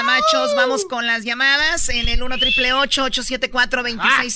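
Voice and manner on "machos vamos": high, drawn-out hype shout; shouted announcement. Real, not acted. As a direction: announce it like a show host. Host announcing segment.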